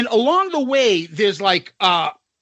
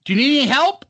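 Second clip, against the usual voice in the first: imitated helpful attendant; 6 semitones higher, faster than usual. Lady offering help, retold.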